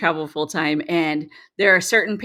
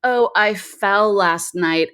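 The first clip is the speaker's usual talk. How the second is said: sheepish son; much slower than usual. Retold or imitated. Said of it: "He's like".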